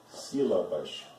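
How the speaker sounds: sílabas drawn out slowly, dropping low; slow demo. Shown as a demonstration. Teacher slowly demonstrating a word to students. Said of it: "as sílabas tônicas".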